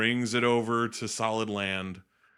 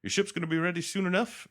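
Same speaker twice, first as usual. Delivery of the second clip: raised, lightly voiced host; hint of smooth Lando; 10 semitones higher, faster than usual. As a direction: play the host, lightly higher. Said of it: "he kinda".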